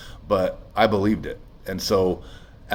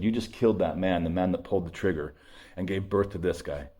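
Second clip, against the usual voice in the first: hushed; 6 dB quieter than usual. Retold or imitated. Speaks to his former self.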